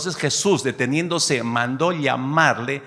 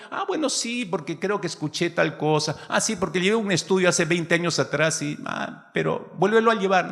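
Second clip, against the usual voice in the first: smug believer; 6 semitones higher than usual. Pretend. Complacent believer voiced mockingly.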